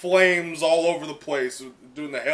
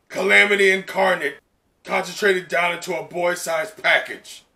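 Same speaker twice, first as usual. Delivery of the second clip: higher, louder taunting villain voice; a hint of a sneering villain; mocking villain; 4 semitones higher, 4 dB louder than usual. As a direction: sneer at the younger brother. Voicing the villain Dabi.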